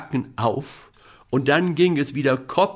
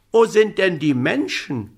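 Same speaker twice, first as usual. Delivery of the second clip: calling up; 6 semitones higher than usual. Acted. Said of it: "rief der kleine Häwelmann hinauf".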